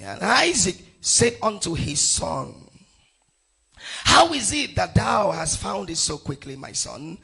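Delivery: emphatic, measured Bible reading; scripture reading. Acted. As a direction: proclaim the verse phrase by phrase. Reads scripture aloud to congregation.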